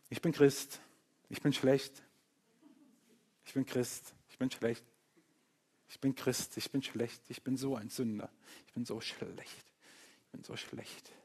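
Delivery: mock pious moaning, fading away to a whisper; mock self-pity. Preacher mocking fake-humble Christians, fading from soft moan to whisper. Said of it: "Echte Demut ist eben nicht dieses".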